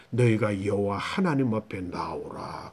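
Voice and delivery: mildly solemn quote, low and unhurried; solemn summons. Acted. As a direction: draw out a hushed call to come forward. Preacher voices solemn summons to Israel.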